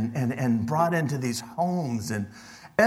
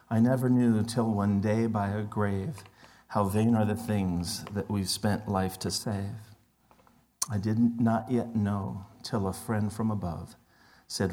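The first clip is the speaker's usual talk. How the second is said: poem recitation. Acted. Reads a poem to congregation.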